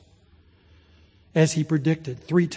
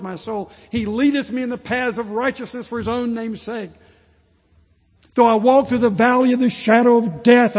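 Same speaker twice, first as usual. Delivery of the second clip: rising recitation; 6 semitones higher, 5 dB louder than usual. Retold or imitated. A pastor voicing dying saints reciting the psalm, swelling loud. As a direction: let the psalm swell like a deathbed testimony, then fall away.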